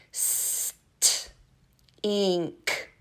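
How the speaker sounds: "St" breathed softly, then "ink"; word split into sounds. Shown as a demonstration. Teacher to preschoolers, splitting stink to hear the t. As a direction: pull "St, ink" apart to show the t. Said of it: "Let's see if we can hear the letter T".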